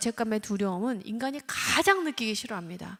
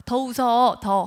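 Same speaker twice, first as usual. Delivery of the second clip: louder insistent push; pushy demand; 10 dB louder, much slower than usual. Retold or imitated. Parent insisting the child smile more, louder. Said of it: "하면서 합리화를 하고".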